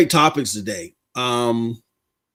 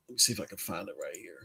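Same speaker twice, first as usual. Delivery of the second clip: very soft, low, quick mumble; muttering to oneself; 10 semitones lower, 18 dB quieter, faster than usual. Real, not acted. Host hunting for the story to put up, muttering to himself. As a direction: talk under your breath while searching.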